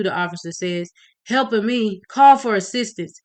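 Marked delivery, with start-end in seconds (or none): 1.2-3.2 higher, louder urgent shout; alarmed shout. Acted. Officer shouting for help after the shooting. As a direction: bark it out in shock.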